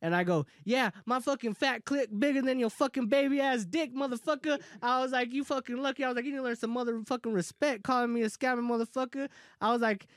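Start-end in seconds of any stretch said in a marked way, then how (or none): 0.6-4.6 higher-pitched, heated insult; retold angry comeback. Retelling a comeback to the seller's insult, angry. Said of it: "I went off on him". 5.3-6.0 higher-pitched, heated telling-off; retold angry rant. Retelling a reply to being called scammer, angry. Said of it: "I went off on him". 6.2-9.3 retold angry rant. Retelling a reply to being called scammer, angry. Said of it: "I went off on him".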